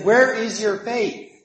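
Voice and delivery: mild scolding. Retold or imitated. Jesus to his frightened disciples, mildly scolding. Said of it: "He scolded them a bit".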